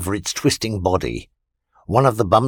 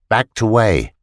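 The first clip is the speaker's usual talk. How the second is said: ordinary delivery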